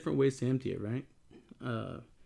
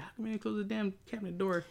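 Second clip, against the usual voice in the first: retold yell; 6 semitones higher, 6 dB quieter, faster than usual. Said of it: "I think I yelled at you".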